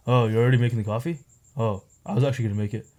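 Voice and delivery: quick, lightly imitated housemate; a light, hurried take-off of the roommate; imitating housemate. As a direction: toss it off quickly as your housemate. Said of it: "like, this is how he talks".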